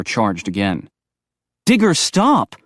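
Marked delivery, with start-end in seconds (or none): 1.6-2.6 sharp, loud command to stop; yelling. A narrator's reading. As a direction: shout him down hard. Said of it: "Brinley yelled at him".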